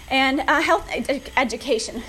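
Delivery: winded while pedaling; short of breath, stumbling on words. Real, not acted. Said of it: "I'm getting winded on this bike".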